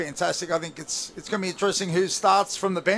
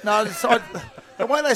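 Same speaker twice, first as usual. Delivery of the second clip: louder, higher, half-laughing denial; laughing protest; 6 semitones higher, 5 dB louder than usual. Real, not acted. Pundit denies lying to co-host, loud laughing protest. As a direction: blurt out a defence through a laugh.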